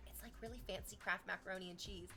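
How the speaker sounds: quiet, confiding hush; mock whisper, voiced; hushed retelling. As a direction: say it like a guilty secret at the table. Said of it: "he whispers really quietly".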